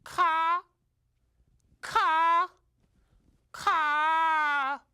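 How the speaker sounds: high, spaced, deliberate caws; crow's announcement. Acted. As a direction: deliver big news in three separate caws, the last drawn out. Mother crow tells him her news.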